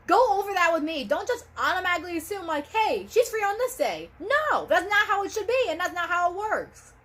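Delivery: high, emphatic telling-off; real frustrated scolding. Real, not acted. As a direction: hammer the point home, exasperated. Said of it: "I'm really fired up".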